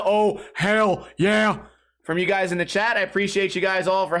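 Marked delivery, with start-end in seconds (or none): 0.0-1.7 hell yeah cheer. Shown as a demonstration. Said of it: "can I get a".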